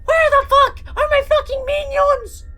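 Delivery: high, loud shriek; hammed-up squeaky outraged yell; Gru. A narrator's reading. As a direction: shriek it in a cartoon accent. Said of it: "Gru shrieked".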